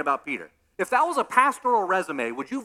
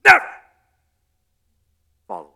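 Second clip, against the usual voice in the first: boastful shout; 6 semitones higher, 8 dB louder than usual. Retold or imitated. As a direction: shout the promise proudly. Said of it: "Peter said".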